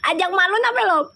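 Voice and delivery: very high squealing laugh, talking through it; high laughing, almost crying; shrieking laughter. Real, not acted. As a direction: shriek with laughter between words. Laughing at a viewer's joke.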